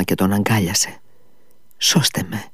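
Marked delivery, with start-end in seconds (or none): 1.8-2.4 almost groaning. A narrator's reading. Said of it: "είπε σχεδόν στενάζοντας".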